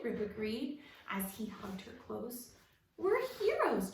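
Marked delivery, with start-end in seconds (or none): 3.0-3.9 high, loud proclamation; proclaimed. A narrator's reading. Jessie proclaiming victory to the others, high and loud. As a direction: announce it like a triumph. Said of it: "Jessie proclaimed".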